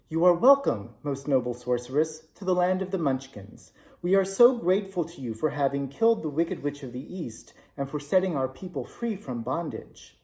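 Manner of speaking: a touch of sweetness, bowing politely; lightly voiced kind old woman greeting a guest; sweet voice. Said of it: "said in a sweet voice".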